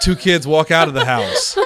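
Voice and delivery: slow, deliberate mock narration; audio description narrator. Friend mimics a movie's audio description, slow narrator voice. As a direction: lightly imitate a describer, amused. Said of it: "literally the woman says".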